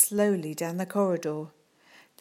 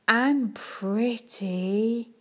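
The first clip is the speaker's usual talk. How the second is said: sighed; 4 semitones higher, much slower than usual. Acted. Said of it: "sighed Nazim".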